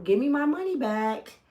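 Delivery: calm, steady demand; firm but unruffled. Retold or imitated. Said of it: "and I'm just as calm".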